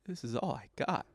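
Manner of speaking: rising into a whiny protest; pleading, hurt, then a high indignant whine; mock wounded self-pity. Husband protesting to wife about his accents, mock hurt. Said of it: "I just looked at her like".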